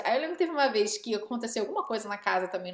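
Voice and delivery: usual speaking voice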